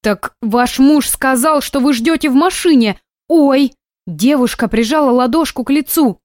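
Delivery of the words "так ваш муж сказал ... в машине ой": high, startled nurse voice; a nurse caught off guard, rising; surprised nurse. A narrator's reading. Nurse surprised to find the mother here, high and startled.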